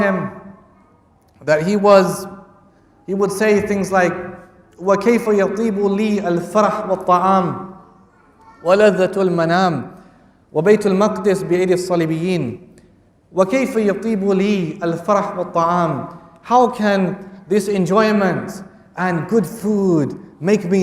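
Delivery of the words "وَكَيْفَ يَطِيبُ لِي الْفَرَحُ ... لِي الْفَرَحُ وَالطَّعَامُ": quick, even Arabic recitation; rapid classical recitation. Acted. Preacher quoting Salah ad-Din in rapid classical Arabic recitation. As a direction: rattle off the classical quote.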